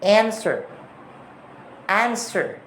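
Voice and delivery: "answer" in a British accent. Shown as a demonstration. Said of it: "British accent".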